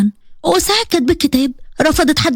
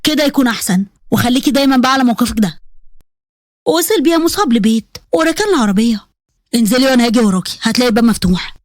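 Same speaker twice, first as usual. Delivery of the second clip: lightly voiced man, a little low; curt stern husband; 3 semitones lower than usual. Husband sending his bride indoors, curt and stern. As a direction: give orders as a controlled, stern husband.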